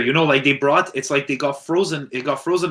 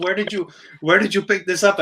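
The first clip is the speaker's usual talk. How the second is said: grandmother; 5 semitones higher than usual. Retold or imitated. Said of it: "She goes".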